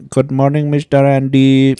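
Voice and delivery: sweet over-polite phone greeting; chirpy call center rep. Retold or imitated. Customer service rep voice.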